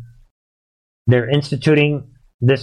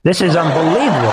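quick words through a laugh; laughing disbelief; 2 semitones higher, faster than usual. Real, not acted. Commentator reads the news, laughing in disbelief.

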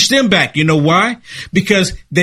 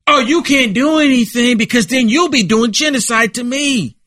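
mock taunt; 4 semitones higher than usual. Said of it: "mock reply to the neighbour".

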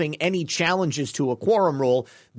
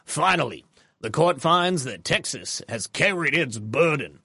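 put-on Southern accent. Host reading the judge's ruling to viewers in a light Southern accent. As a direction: read it as an older Southern cigar smoker. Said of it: "I'm just doing a Southern accent".

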